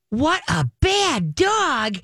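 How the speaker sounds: high, slow sing-song coo; sweetly drawn-out high-pitched dog talk; high happy scolding. Shown as a demonstration. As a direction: coo the scolding as if it were praise. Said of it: "your everything is your voice".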